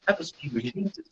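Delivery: retold quiet astonishment; hushed disbelief. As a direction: drop the volume, as if amazed to yourself. Stunned reaction while watching videos.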